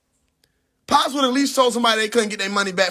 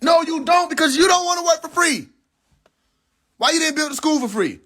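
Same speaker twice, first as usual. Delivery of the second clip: arguing straight back, heated; heated rebuttal; 6 semitones higher than usual. Real, not acted. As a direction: cut him off hard.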